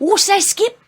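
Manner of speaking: high, loud mock Australian accent. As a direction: call out in a hammed-up Australian accent. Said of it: "that's my Australian accent".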